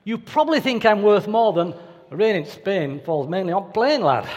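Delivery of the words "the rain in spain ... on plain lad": broad northern English accent, flat vowels, ending on lad. Shown as a demonstration. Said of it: "certain accents are worth more than others".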